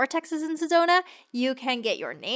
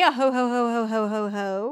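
string of ho-hos trailing down; lightly played Santa chuckle, fading out; mock Santa laugh. Wishing co-host a Christmas Day, mock Santa laugh.

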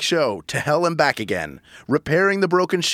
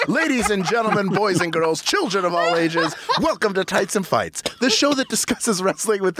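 announcer; 4 semitones higher than usual. Pretend.

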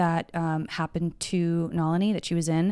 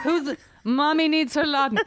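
higher, languid swooning lady voice; femme fatale; 8 semitones higher than usual. Pretend. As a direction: reprise the drugged invalid lady bit. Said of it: "Okay, that bit's over".

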